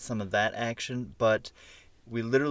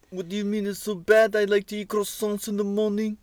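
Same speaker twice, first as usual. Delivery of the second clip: high, hammed-up French accent; a bad French accent, higher and louder; 10 semitones higher, 5 dB louder than usual. Shown as a demonstration. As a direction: ham up a terrible French accent for the French people. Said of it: "his really, really bad French accent".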